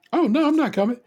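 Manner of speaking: high, laughing mock son; high laughing imitation of the son; laughing son quote. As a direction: squeak out the son's line through a laugh. Son's reply, retold laughing.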